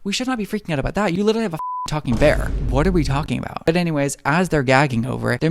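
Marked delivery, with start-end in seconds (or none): 0.0-3.7 sassy. Retold or imitated. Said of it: "And I'm like".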